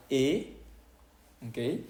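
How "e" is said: "E" as one pure vowel, rising; French E sound. Shown as a demonstration. Teacher showing how the letters are pronounced, isolated "E". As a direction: sound out a clean single "E". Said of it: "Esto se pronuncia".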